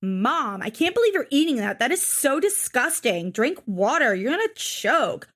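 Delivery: mock disgusted daughter nagging Mom; lightly whiny, exaggerated swoops of complaint; imitating Amber. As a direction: mimic a cringy teenager scolding her mother. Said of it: "when people talk like that".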